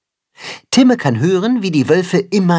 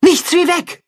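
frightened cry. A narrator's reading. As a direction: cry out in panic. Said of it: "ruft die Wolfsmutter erschrocken".

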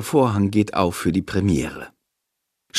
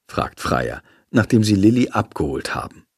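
ordinary delivery, nothing marked

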